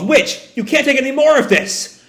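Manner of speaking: high, urgent call. Acted. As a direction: call out in alarm to stop a friend. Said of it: "Sister calls".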